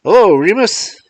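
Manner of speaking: high, thin and tinny, as if down a phone line; thin voice over the telephone. A narrator's reading. Mars John calls Remus over the telephone, thin and tinny. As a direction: call out through the earpiece, thin and far. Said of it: "thin, sulphurical, but familiar voice calling out".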